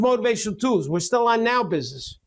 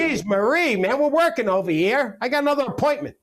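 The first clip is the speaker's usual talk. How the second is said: mock exasperation; 5 semitones higher than usual. Mock scolding of co-host.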